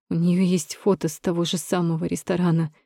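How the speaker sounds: ordinary delivery, nothing marked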